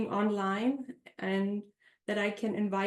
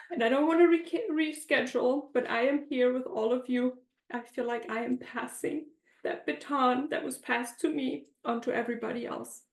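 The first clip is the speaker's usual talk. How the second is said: teary-eyed; 5 semitones higher than usual. Real, not acted. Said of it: "forgive me if I'm a little teary-eyed".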